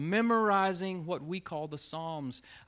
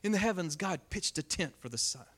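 softer savouring repeat. Shown as a demonstration. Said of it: "I love that image".

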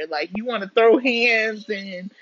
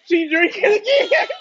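mock voice; 9 semitones higher, 5 dB louder than usual. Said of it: "you probably like".

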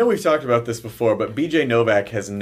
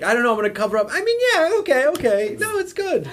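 laughing voice; 13 semitones higher than usual. Acted. Voicing the dog, laughing.

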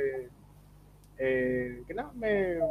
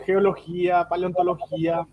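choking on a drink; 3 semitones higher, 8 dB louder than usual. Real, not acted. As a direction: voice still strained from choking. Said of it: "Perdón, me atragante".

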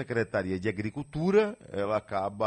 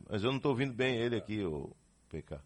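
quick aside to technician; 5 dB quieter, much faster than usual. Real, not acted. Aside to technician about audio.

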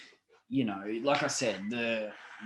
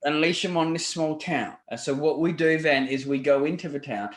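put-on dodgy British accent. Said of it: "putting on a fucking dodgy British accent here".

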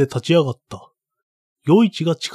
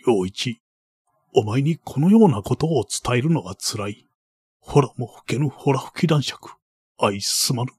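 put-on creaky wise old man; 4 dB quieter than usual. Baron apologises in tears.

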